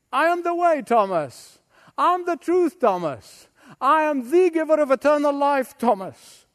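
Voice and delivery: proclaiming Jesus. Acted. Preacher voicing Jesus proclaiming.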